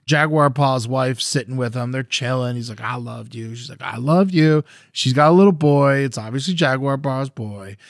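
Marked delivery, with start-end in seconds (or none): 2.8-3.6 soft retold endearment; husband's tender line. Jaguar Paw chills with his wife, quietly loving. 3.8-4.6 higher-pitched imitated endearment; wife's tender reply. Wife answers her husband, lightly imitated and loving.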